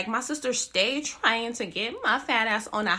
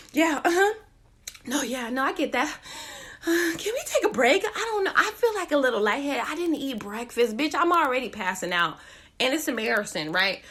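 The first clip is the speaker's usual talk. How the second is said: winded. Retold or imitated. Winded hiker begging her date for a break, breathless. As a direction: talk while gasping for air. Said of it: "feel my breath leaving my body".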